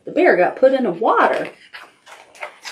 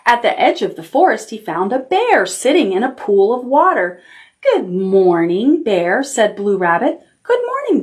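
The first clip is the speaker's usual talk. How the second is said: gentle storybook reading; reading to children. Acted. Teacher reading a picture book to the class, storytelling. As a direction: tell it like bedtime story time.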